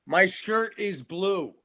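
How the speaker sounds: insistent. Acted. Actor repeats to doubting partner, slowly insistent. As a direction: stretch it out to hammer it home. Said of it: "why are you being so angry".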